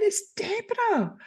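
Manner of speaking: sudden realisation. Retold or imitated. Realising who it was.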